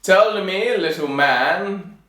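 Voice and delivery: loud, drawn-out royal address; king's voice. Acted. King questioning the tailor from his throne, loud kingly voice. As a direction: command grandly, stretching the last words. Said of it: "said the king".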